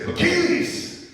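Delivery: a high, drawn-out shouted word; imitated yell. Host retelling how the councilman yelled on the phone. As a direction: holler the word slowly like a stunned man. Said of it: "And he yelled out loud".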